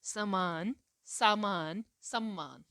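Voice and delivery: समान short, सामान long, सम्मान with double m; teacher listing the minimal triplet; careful demo. Shown as a demonstration. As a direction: contrast the three words clearly. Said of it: "pronunciation होनी चाहिए".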